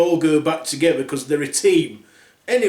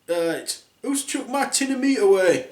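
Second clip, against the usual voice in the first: grumpy dwarf; 6 semitones higher than usual. Acted. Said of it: "said Grumpy".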